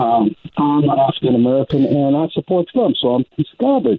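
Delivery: muffled, tinny bad phone line; talking through a tin can. Real, not acted. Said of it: "sounds like you're talking through a tin can".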